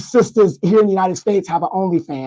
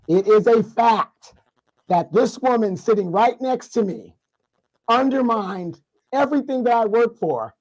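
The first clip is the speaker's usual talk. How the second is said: mock solemn proclamation. Mock grave announcement to viewers.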